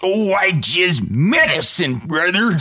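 Hulk Hogan voice. Acted. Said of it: "How about a Hulk Hogan brother".

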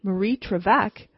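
Marie Trevec with a rising, startled question tune on Trevec; surprised question. Acted. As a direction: repeat Marie Trevec in disbelief, rising at the end. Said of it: "What?" I exclaimed".

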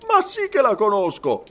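high, loud retort; emphatic retort. A narrator's reading. Servant insisting he knows the sum, emphatic.

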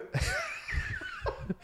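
breathy high laugh that breaks off the word. Real, not acted. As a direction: burst out laughing at your own attempt. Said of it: "I can't even do it".

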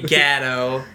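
"Gadot" as "GAD-oh"; Midwestern short A. Shown as a demonstration. Midwesterner showing the wrong name, "Gadot" said "GAD-oh". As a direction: open "Gadot" with the vowel of "cat". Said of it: "definitely not Gadot".

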